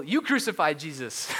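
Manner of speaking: slow, emphatic mock accusation; bold proclamation. Preacher summing up the apostle's sermon message, boldly. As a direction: hammer it out as a bold preacher would. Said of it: "super bold".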